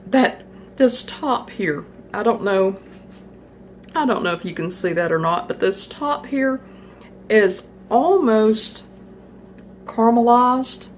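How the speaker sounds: chewing while talking; mouth full. Real, not acted. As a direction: speak around a bite of cake. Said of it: "trying not to talk with my mouth full".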